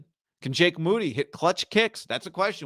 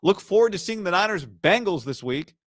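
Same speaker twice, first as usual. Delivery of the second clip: mock shrug; 7 semitones higher than usual. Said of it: "he was just saying".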